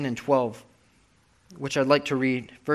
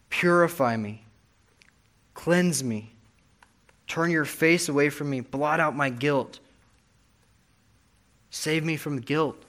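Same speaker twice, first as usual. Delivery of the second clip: understated pleading in separate, weighted phrases; restrained desperate prayer, slowing toward the end; desperate plea; slower than usual. Retold or imitated. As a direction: plead earnestly, pausing after each request. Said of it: "He's desperate".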